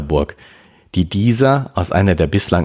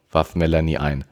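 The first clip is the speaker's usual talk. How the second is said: ordinary delivery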